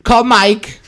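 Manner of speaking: loud, high panicked command; urgent loud command. Retold or imitated. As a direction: blurt it out to escape. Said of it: "I was like".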